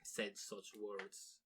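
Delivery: put-on a jokey Russian hitman accent trailing off; mock Russian assassin. Russian hitman boasts of his plan, soft deadpan Russian accent. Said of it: "I don't know why they're Russian".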